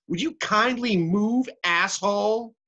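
high-pitched exasperated outburst; acted scream. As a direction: blurt it out at the end of your patience. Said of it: "and I screamed".

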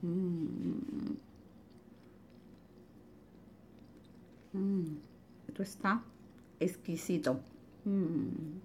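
talking with a mouthful; speaking through food in mouth; mouth full. Real, not acted. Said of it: "no se puede hablar con la boca llena".

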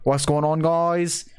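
lightly put-on British morning greeting; mock just-woken British accent; sleepy British streamer. British streamer greets viewers on waking, sleepy British accent. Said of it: "a British streamer and I just woke up".

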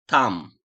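"Tam" said loud with a stressed a; loud stressed word. Shown as a demonstration. Teacher modelling one-syllable words, loud. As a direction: punch the a of "Tam". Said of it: "Tek hecelilere bakalım".

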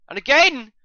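high, loud protest; outraged high-pitched cry; indignant shout. Real, not acted. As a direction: yell it as a complaint. Yells at foul in game.

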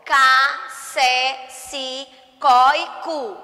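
"Cá", "sé", "si", "có", "cu" each said apart and clearly; syllables called out. Shown as a demonstration. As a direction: call each syllable out to the class. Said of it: "as sílabas, os pedacinhos". (sílabas ditas separadas e bem marcadas)

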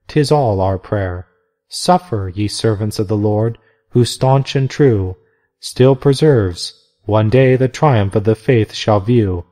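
slow, solemn verse reading; hymn recital. A narrator's reading. Narrator reading the nuns' hymn, solemn. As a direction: read the hymn like a prayer.

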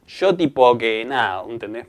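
slow Buenos Aires drawl, "yo" as "sho"; mock porteño accent. Mimicking foreigners imitating Argentines, porteño accent. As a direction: put on a porteño accent, drawn out. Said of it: "imitan con el acento".

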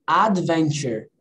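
"Adventure" said slowly, every syllable clear, ending "tchur"; slow clear demo. Shown as a demonstration. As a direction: spell out "Adventure" slowly for the student. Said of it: "como que pronuncia?". ("Adventure" bem devagar e articulado)

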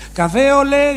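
high put-on French waiter voice, well above his own. A French hotel waiter greets Mateos in a high French voice. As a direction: ham up a Parisian waiter greeting. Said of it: "le dice el camarero".

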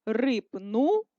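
рипнула said slowly split differently; slow split another way. Shown as a demonstration. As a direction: dictate рипнула with the second split. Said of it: "продовжуємо вже з маленької літери".

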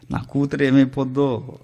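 slow, mildly tearful father's lament; imitated sobbing. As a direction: act out a worried father's sobbing, understated. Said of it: "మళ్ళీ ఎక్కెక్కి ఏడుస్తూ". (ఏడుస్తున్న తండ్రిని అనుకరిస్తూ, నెమ్మదిగా)

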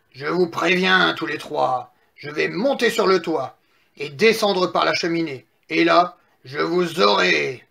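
slightly menacing storybook wolf; threatening wolf. Acted. Wolf warns three pigs about the chimney, mildly menacing. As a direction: warn them with wolfish relish.

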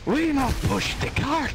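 bad Russian accent. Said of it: "that was terrible Russian accent".

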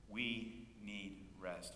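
slow, deliberate lead for the congregation; slow lead line. Shown as a demonstration. Pastor leading the church in a slow repeated phrase. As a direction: spell it out slowly so they can follow. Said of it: "Will you say that with me?".

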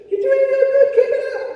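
comically squeaky falsetto, loud; high voice. Shown as a demonstration. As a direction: put on a tiny, very high voice. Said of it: "high like this".

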